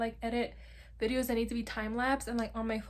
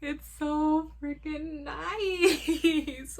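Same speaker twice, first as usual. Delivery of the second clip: laughing gush; 4 semitones higher, much slower than usual. Real, not acted. Gushing over laptop.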